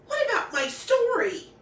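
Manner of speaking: high, loud protesting cry; cried out. A narrator's reading. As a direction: cry out in dismay. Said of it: "Red Riding Hood cried".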